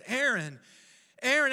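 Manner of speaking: loud call rising in pitch and volume. Retold or imitated. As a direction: call the name, then call it harder. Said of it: "it begins to get louder and louder".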